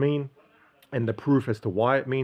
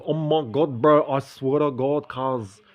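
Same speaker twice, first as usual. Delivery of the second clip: put-on broad western Sydney Bankstown accent, drawn out and louder; hamming up the Bankstown lad accent from his teens; Bankstown Aussie accent; 4 semitones higher, 4 dB louder, slower than usual. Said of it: "my accent by the time of eighteen was".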